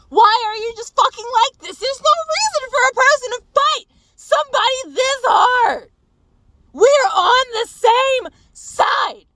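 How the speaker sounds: loud, very high-pitched furious shout. Retold or imitated. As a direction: shout at your partner, losing it. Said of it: "So I'm yelling at him".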